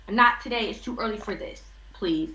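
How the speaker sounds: low, tired brush-off of the question; dismissive brush-off. Retold or imitated. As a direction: wave it away like it's too early for this. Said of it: "Being so dismissive".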